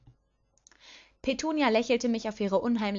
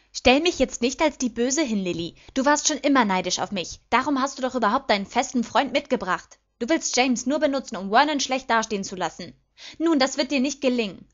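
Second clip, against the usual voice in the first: louder, emphatic, accusing attack; angry accusation; 4 semitones higher, 6 dB louder than usual. A narrator's reading. Petunia accuses her sister of jealousy, angry. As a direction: fire accusations at her, voice raised.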